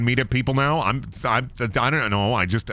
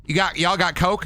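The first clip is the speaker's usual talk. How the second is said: higher, put-on Southern accent; mock Southern; 5 semitones higher than usual. Southerner ordering at counter, mock Southern accent. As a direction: play a Southern customer, Southern accent. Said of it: "Southern people for saying Coke".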